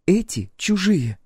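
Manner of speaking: high, slow, stubborn insistence; drawn-out and high, digging in; Clementine. A narrator's reading. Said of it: "упёрлась Клементина".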